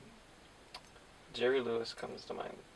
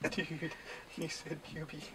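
Beavis voice; 3 semitones higher than usual. Retold or imitated. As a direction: drawl it like a dumb teen. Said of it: "We could be Beavis and Butthead".

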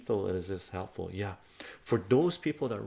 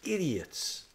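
retold furious rant; 7 semitones higher than usual. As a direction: tear into them all over again. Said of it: "I go".

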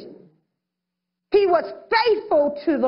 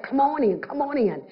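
inviting. Retold or imitated. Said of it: "the mercy of God said".

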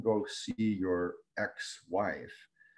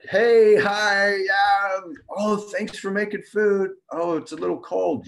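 high, loud, sugary-sweet fake politeness; mock-sweet greeting; 12 semitones higher, 8 dB louder, slower than usual. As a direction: sing out a falsely cheerful hello to the partner. Partner comes home, mock-sweet greeting.

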